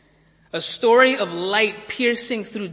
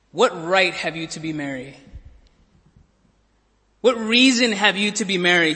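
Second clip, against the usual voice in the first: challenging question; 3 dB louder than usual. Acted. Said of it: "he says".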